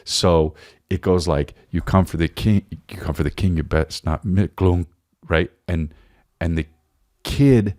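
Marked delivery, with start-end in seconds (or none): 1.7-4.9 words chopped off by a closing door; cut off mid-word. Retold or imitated. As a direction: let the door slam cut the line, then glunk. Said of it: "the door closes in the middle of the sentence".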